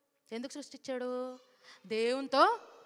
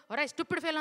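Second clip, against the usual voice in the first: scolding insult; 4 semitones higher, 4 dB louder than usual. Retold or imitated. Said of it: "అని తిడుతున్నారంట".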